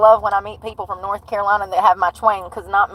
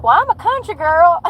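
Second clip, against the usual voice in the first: 笑着模仿女店员, 高声说出; laughing through a high imitation of the clerk; 8 semitones higher than usual. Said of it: "She's like".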